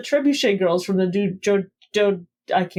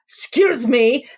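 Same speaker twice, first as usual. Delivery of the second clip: breaking character; 2 semitones higher than usual. Retold or imitated. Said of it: "technically broke character".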